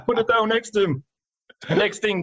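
words squeezed out through high laughter; laughing while talking. Real, not acted. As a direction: tell it while cracking up. Laughing while telling the story.

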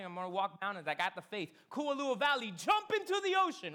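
mock a literal believer; mock command. Pastor mocking a literal reading, hammed-up shouted command.

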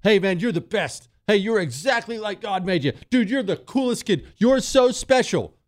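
sugary doting voice, pitch rising; sarcastic pampering cheer; mock coddling praise.

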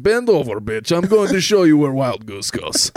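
a hint of swaggering command; mock domineering partner. Imagined girlfriend ordering him around, mock-domineering. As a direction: lightly play a bossy aggressor.

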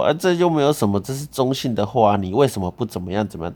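imitating the boyfriend's indignant protest; mocking boyfriend. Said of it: "他还说".

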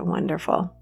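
drowsy, near-whispered acceptance; sleepy "wonderful". Retold or imitated. Told by her teacher she can fall asleep, soft whispered reply. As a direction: breathe out a soft, contented "Wonderful.". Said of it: "I said".

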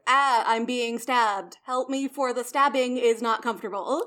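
hammed-up stilted dying plea; mock stabbing victim. Joking as Caesar being stabbed, mock stabbing victim.

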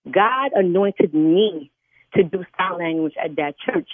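very slow, each word weighted; solemn declaration. Real, not acted. Interpreter defending her church calling, slow and solemn. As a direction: draw it out with firm conviction. Defends herself to angry caller.

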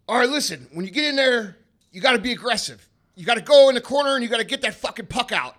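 loud, high, fired-up coach of a father; dad's pep talk. Retold or imitated. Dad hyping his kids on the drive to soccer, fired-up pep talk. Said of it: "give us this pep talk".

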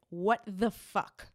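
slow, drawn-out disbelief; spelled-out indignation, word by word; deadpan outrage. Retold or imitated. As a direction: stretch each word for comic weight. Reads out her outraged text.

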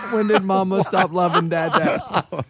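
slow, half-laughing repeat; laughing through it. Retold or imitated. Retelling Ray's drunk whine to his wife, laughing and slow. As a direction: break into laughter while quoting him.

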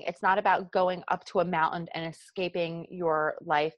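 South Jersey accent, "mountain" said like "moun-en" with the t swallowed. Real, not acted. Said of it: "There went my South Jersey accent".

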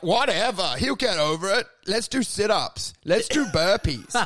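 breezy dismissive sociopath, slowing on the sit-ups; mock sociopath. To a co-host, mocking the sociopaths, breezy and dismissive. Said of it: "sociopathic are just like".

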